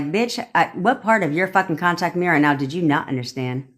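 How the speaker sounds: impatient demand, voice kept at talking level. Shown as a demonstration. Coach showing listeners how to address their person, impatient. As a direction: demand it like talking to a child who hasn't listened. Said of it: "with an impatient tone in your body".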